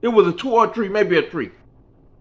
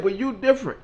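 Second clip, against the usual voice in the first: Mickey's voice; 8 semitones higher, 4 dB louder than usual. Retold or imitated. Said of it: "She said".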